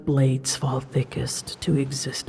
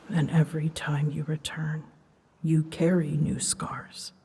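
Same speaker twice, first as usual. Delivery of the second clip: whispered, softer, tender sorrow; 6 dB quieter than usual. Acted. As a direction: breathe it out gently to the rider. Grieving over rider's scars.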